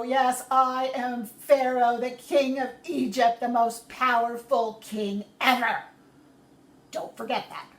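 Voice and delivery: proud Pharaoh introducing himself, loud; pompous Pharaoh. Acted. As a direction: puff yourself up like a king.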